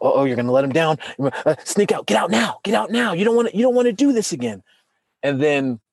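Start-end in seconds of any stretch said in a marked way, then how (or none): 0.0-4.6 a cowardly inner voice, higher and hurried. Retold or imitated. The coward inside urging escape, mildly panicky and higher. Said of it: "the coward started to creep up".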